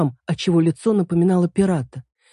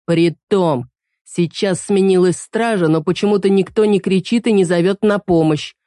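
bilious; 4 dB louder than usual. Acted. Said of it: "жёлчно заметил он".

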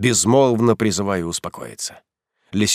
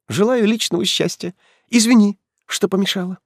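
proud hurt woman; 7 semitones higher than usual. Acted. Heroine's proud farewell speech.

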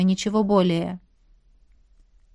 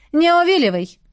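sharp, louder, higher rebuke; stern demand; 7 semitones higher, 4 dB louder than usual. A narrator's reading. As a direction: cut off his dodging. Brother interrogates evasive sibling. (строгий окрик)

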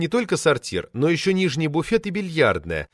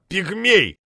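put-on higher drunken jeer; drunken insult; 6 semitones higher than usual. A narrator's reading. Drunk poet jeers at the short administrator. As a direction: spit the insult at him.

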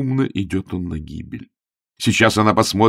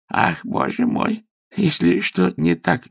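high, slow fretting voice; fluttering landlady; 12 semitones higher than usual. A narrator's reading. Landlady worried her lodger is leaving, fretting.

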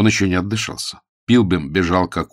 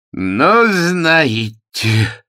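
loud high astonishment; astonished exclaim; 9 semitones higher, 6 dB louder, much slower than usual. A narrator's reading. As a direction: cry out in disbelief. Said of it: "воскликнул он".

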